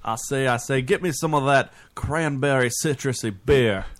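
put-on a weak Southern colonel accent, barely shifted; lightly hammed Southern accent; bad Southern accent. Ordering a beer as a Southern colonel, in a weak Southern accent. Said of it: "the worst Southern accent".

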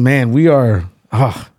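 ordinary talk

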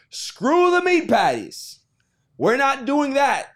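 slow, high announcing voice; hammed-up, slow proclamation; mock company voice. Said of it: "So they said".

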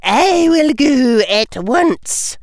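slow, firm teacher's order; firm stern teacher. Acted. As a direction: lay down the rule.

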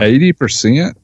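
rising disbelief on eighty; surprised. Real, not acted. Reacts to eighty percent expo.

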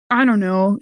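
usual speaking voice

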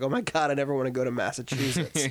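fast, laughing mock dismay; laughing mock horror. Joking about a film's creepy setting, laughing quickly. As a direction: rattle it off through a laugh. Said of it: "it's like".

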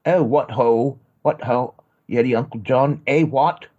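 hammed-up bad posh British accent; a lousy fake British toff accent. American faking a British accent for the phone. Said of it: "I really do a lousy".

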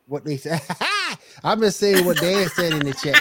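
high-pitched protest of innocence; mock defensive pleading. Guest jokingly disowning a chat insult to Colin, mock pleading. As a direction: plead your case, voice high, half laughing.

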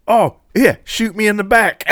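high, loud cartoon Australian kid; mock Australian accent. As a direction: hail them in a hammed-up Aussie accent. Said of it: "like, two Australian kids".

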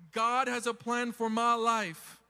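loud, slow declaration of belief; with conviction. Shown as a demonstration. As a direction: proclaim it like you actually believe it. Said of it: "say it like you actually believe it".

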